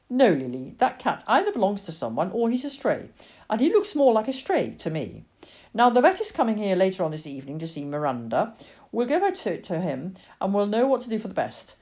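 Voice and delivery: emphatic, reasoning parent; refuse, then explain the plan steadily; firm mother. Acted. Mother explains to Lily about the vet, firm reasoning.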